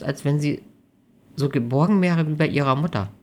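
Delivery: a hint of a self-conscious girlfriend; hesitant young woman. Amelie's voice in dialogue.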